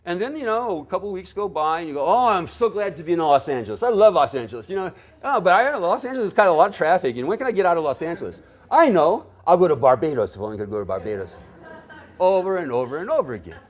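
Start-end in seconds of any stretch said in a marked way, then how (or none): 2.0-4.7 loud, hammed-up gushing; big put-on enthusiasm; mock gushing. Acting out relief at being home. 5.2-11.4 loud, rushed comic griping; hammed-up fickle traveller, fast and loud; mock restlessness. Acting out restless complaint, then new craze.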